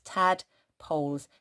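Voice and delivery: Tadpoles stretched out slowly. Shown as a demonstration. Teacher saying tadpoles slowly for spelling. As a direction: draw out Tadpoles. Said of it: "split into two parts".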